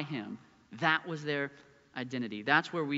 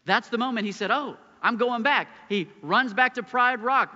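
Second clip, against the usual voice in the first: building preaching; 6 semitones higher, 5 dB louder than usual. Real, not acted. Preaching climax.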